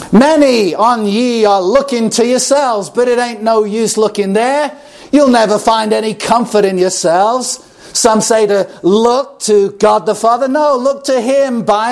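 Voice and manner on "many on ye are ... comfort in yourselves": rough country Essex preacher; broad Essex accent. Retold or imitated. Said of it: "in his broad Essex accent".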